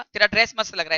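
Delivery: "तेरा ड्रेस मस्त" said as an honest, friendly compliment; mean it, sincerely praise her dress; genuine compliment. Shown as a demonstration. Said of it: "आपने genuinely अच्छा बोला था".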